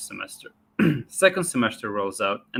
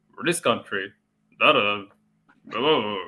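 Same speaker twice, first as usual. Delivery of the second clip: awful speechifying delivery in verse rhythm. Retelling a teacher's awful impressions in class: imitating an awful Barack Obama impression. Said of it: "he made an impression of Barack Obama".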